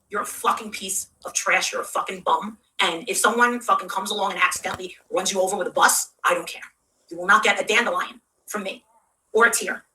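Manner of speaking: write them off without raising your voice; subdued, low-pitched retold disgust; cold contempt. Retelling cold telling-off after seeing red.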